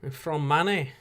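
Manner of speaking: lightly put-on Manchester accent; a hint of a Manchester swagger impression; rock-band brothers. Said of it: "Do I sound like one of the old rock-band brothers?".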